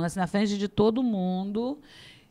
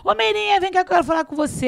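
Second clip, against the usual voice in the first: retold calling over; 8 semitones higher, 3 dB louder, faster than usual. Father-in-law calls her over.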